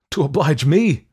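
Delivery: high, loud incredulous retort; indignant cry. A narrator's reading. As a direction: cry out as if affronted. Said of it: "cried Wolfe".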